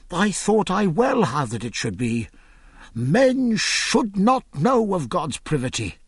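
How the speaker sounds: put-on a worried old man crossing himself; a hint of a panicked carpenter; alarmed carpenter. Frightened carpenter blesses himself.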